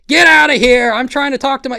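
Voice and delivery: high, loud mock yell; imitated shouting. Boogie shooing away an intruder, imitated high shout. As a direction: yell it high, as the annoyed celebrity. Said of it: "was shouting".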